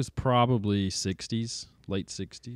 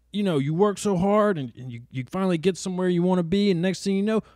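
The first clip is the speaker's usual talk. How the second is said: put-on climbing higher to a squeaky alarm on the baby; mock doom warning; 7 semitones higher than usual. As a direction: retell his warning, pitch rising to panic. Tree guy's doom warning retold.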